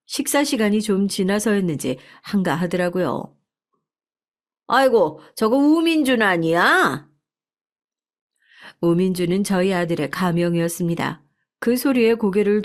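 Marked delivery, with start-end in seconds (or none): 4.7-7.1 surprised exclaim. Acted. Restaurant owner spots the son's ad.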